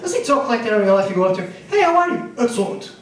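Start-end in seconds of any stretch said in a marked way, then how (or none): 1.7-2.3 bright high hello; chirpy high-pitched greeting; high friendly greeting. Retold or imitated. Greeting the voiceover man. 2.4-2.9 deep game announcer robot voice; low robotic voice. Retold or imitated. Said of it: "low robotic voice".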